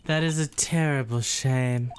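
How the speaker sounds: lightly put-on transatlantic accent; old-Hollywood transatlantic accent. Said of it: "transatlantic voice".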